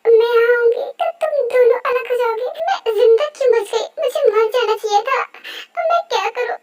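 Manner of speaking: distraught outburst. Acted. Rose threatens to end her life before Yoongi, distraught. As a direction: cry out in acted despair.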